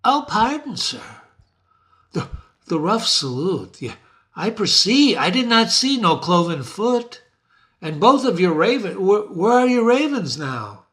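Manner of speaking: cringing witch apology; apologetic witch. Acted. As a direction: grovel before your master. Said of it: "The witch says".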